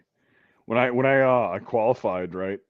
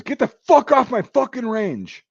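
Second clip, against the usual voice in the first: slow, high, full-voiced command; imitated sergeant's yell; shouting drill sergeant; 13 semitones higher, 7 dB louder than usual. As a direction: bellow the order, stretching each word. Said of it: "my drill sergeant".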